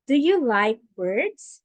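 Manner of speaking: rising question, lifted at the end; asking with an upward lilt; rising question tune. Shown as a demonstration. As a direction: let the question rise at the end. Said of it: "since this is a question".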